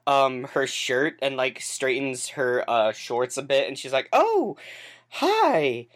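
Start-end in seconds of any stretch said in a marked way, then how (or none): 4.1-5.9 high-pitched, startled greeting; caught off guard. Acted. Bartender Carmilla scrambles up to greet Luke, caught off guard. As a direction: greet someone as if just caught lying down. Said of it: "starts to get up quickly".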